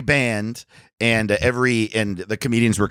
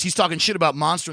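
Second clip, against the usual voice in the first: quick, higher, laughing report; laughing imitation; 7 semitones higher, faster than usual. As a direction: tattle through laughter. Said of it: "the guy goes".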